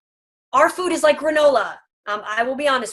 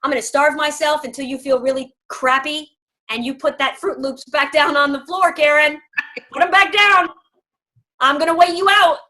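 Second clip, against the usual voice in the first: a Husky digging in, louder by the end; stubborn Husky; 3 semitones higher, 5 dB louder than usual. Pretend. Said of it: "Here's Husky".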